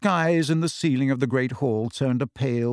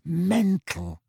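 higher, hollow repeat of the word; despairing echo; 5 semitones higher than usual. Acted. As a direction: echo it to yourself in dismay. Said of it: "he said in a croaky whisper".

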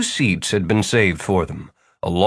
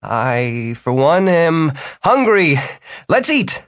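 deadpan pronouncement; 6 semitones higher, slower than usual. A narrator's reading. Martin's deadpan, slowed.

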